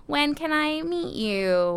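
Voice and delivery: mimicking guy. Mimicking texting guys.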